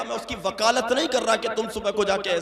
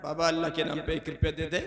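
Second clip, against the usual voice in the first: beggar's plea; 8 semitones lower, 7 dB quieter, faster than usual. Retold or imitated. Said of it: "जो गलियों में मांगते फिरते हैं".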